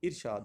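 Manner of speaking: ارشاد as "ir-shaad", short i first; correct pronunciation. Shown as a demonstration. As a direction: say ارشاد with "ir" at the start. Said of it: "اس کا درست option".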